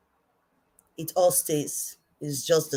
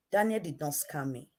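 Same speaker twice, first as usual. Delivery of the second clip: quiet repeat; 7 dB quieter than usual. Shown as a demonstration.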